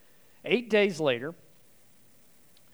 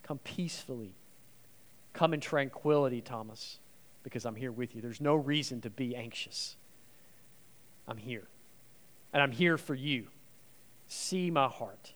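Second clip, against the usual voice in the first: gentle voice; 2 semitones lower, 3 dB quieter than usual. Acted. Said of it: "Jesus changes the wording".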